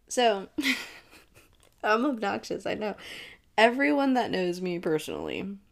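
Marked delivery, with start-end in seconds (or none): none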